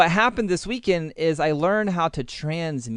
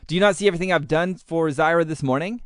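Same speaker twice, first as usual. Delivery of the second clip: harsh; 4 semitones higher, 3 dB louder, faster than usual. Retold or imitated. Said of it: "it would come across harsh".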